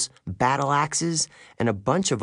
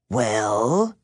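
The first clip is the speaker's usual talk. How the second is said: demanding; 3 dB louder than usual. A narrator's reading. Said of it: "the woman demanded".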